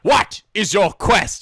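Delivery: slow, weighty question, leaning on what; a lightly voiced Holy Grail bridgekeeper; bridgekeeper impression. Quizzing the anime characters, in a slow mock bridgekeeper voice. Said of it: "Holy Grail flashbacks".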